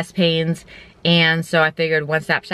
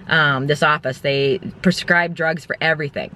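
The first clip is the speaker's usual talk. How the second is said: usual speaking voice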